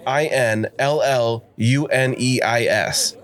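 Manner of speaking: slow letter-by-letter I N L L U N E I S; spelling out letters. Shown as a demonstration. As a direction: spell each letter slowly and clearly. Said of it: "It's L E I P".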